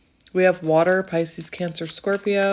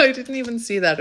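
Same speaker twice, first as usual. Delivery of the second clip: laughing; 5 semitones higher, faster than usual. Real, not acted. Laughing after reveal.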